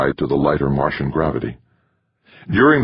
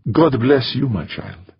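priestly blessing; 8 semitones higher, slower than usual. Acted. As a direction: bless her like an old priest.

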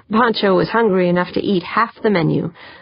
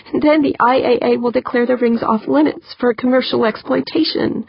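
tearful; 5 semitones higher than usual. Acted. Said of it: "her eyes welling with tears".

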